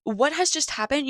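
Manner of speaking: high, loud stunned cry of disbelief; reliving the shock of the crash, loud and high. Retold or imitated. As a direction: shout it like you can't believe your eyes. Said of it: "And I was like".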